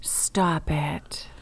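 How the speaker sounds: low, whispered reaction; hushed whisper. Real, not acted. Co-host reacting to a ghost story, hushed whisper. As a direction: whisper it back under the breath.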